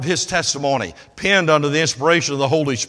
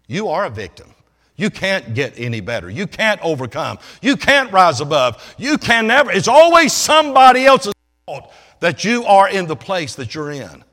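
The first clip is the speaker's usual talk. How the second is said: mocking the victim message; 6 semitones higher, 9 dB louder than usual. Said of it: "is being taught".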